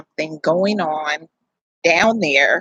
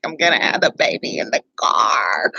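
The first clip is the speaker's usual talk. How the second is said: panicked whisper; 7 semitones lower than usual. Retold or imitated. Whispering to her husband that the baby is coming. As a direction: whisper it in fear of the birth. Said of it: "I'm like".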